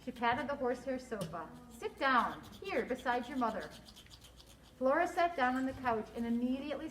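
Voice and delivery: expressive storybook narration with lively dialogue; story read-aloud. A narrator's reading. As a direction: read it to children, acting each line.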